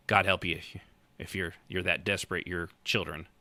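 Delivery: normal talking voice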